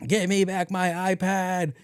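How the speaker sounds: mock frantic guard. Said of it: "And he goes".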